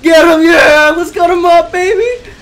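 high, full-voiced cheering; triumphant shouting. Real, not acted. Player cutting up the boss, wild triumphant shouting. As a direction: yell it out wildly, egging on the attack.

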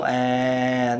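low, full chest-voice à. Shown as a demonstration. Vocal coach showing the chest voice to link. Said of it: "nói bằng giọng ngực luôn".

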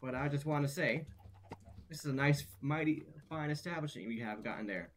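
put-on country accent. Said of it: "I'm losing my country accent as I speak".

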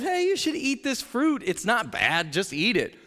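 a hint of a sly snake; tempting snake. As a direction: coax her lightly, like the serpent. Voicing the snake tempting Eve.

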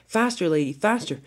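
urgent, rising urging; calling out. Acted. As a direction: spur a friend on. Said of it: "Thomas called to Lady".

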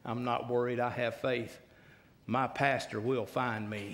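low, untroubled, smiling punchline; carefree confidence. Retold or imitated. Relaxed old boy reassuring his frantic friend, low and carefree. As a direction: answer with easy, settled assurance. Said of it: "smiled real big".

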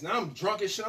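usual speaking voice

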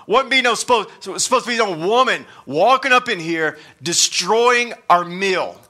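hammed-up indignant dinner guest; grumbling disciple. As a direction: play the huffy disciple complaining. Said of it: "this wasn't a part of how tonight".

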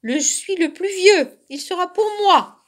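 high, loud quarrelling cub; angry claim. A narrator's reading. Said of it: "se fâcha l'autre ourson". (revendication fâchée, aiguë et forte)

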